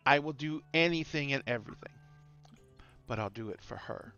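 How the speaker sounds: lich voice, slightly slowed menace; echoing voice inside helmet. Acted. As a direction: calmly declare evil, then soften. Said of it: "the Lich says".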